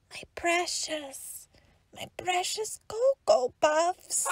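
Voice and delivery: anguished whisper. Acted. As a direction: breathe it out in despair. Mourns lost cereal again.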